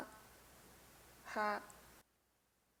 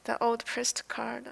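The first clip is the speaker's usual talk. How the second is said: whisper. Real, not acted. Repeats phrase, second time whispered.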